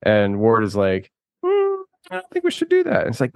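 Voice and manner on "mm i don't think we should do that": mock reluctant caution. Voicing Ward's cautious objection.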